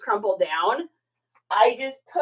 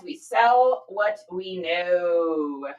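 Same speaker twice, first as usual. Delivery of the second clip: slow repeat; 6 semitones lower, much slower than usual. Shown as a demonstration. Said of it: "right, kids?".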